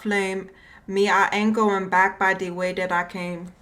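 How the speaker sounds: put-on light Caribbean accent reading. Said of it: "I don't try to do a Caribbean accent".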